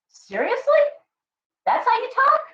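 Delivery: can't believe what they're hearing; mocking the whinging witches in disbelief; incredulous. Real, not acted. Scolding witches online.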